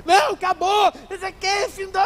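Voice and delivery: high, loud shout that it's over; hysterical shout. Acted. The desperate woman shouts at the pastor that it's all over, high and loud. Desperate person refuses to calm down.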